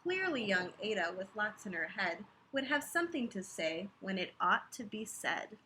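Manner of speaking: rhythmic read-aloud of a rhyming book; lilting bedtime-story voice; story narration. A narrator's reading. Reading a picture book aloud.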